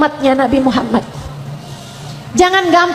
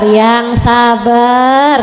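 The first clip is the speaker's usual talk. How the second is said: very drawn-out, crooning consolation; patient soothing; 3 semitones lower, much slower than usual. Acted. Ustazah answering one hurt by in-laws, slow soothing. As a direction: stretch each word to soothe the complainer. Soothing reply to complaining women.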